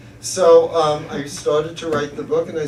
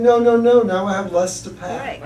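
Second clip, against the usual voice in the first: cheery mom quote; 4 semitones higher, 5 dB louder than usual. Retold or imitated. Mother's upbeat retort voiced.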